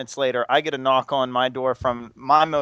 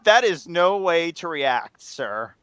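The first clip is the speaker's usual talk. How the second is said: stern professor; slower than usual. Retold or imitated. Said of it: "him being like".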